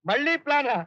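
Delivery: a mild yelp of objection; yelping protest. Acted. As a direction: protest loudly at the idea. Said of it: "లబ లబ లబ లబమని అరుస్తావు ఎందుకు?".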